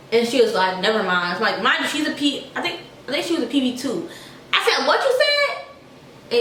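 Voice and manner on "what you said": drawn-out, much higher demand, slow; angry voice. Retold or imitated. Third time daring the private to repeat herself, slow and angry. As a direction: stretch each word out, daring her to repeat it. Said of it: "I dead had my little angry voice".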